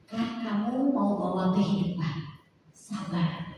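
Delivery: soft, low, slow; gentle reminder. Retold or imitated. Holy Spirit reminding her to stay patient, softly. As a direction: tenderly urge patience. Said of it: "Roh Kudus tuh ingetin".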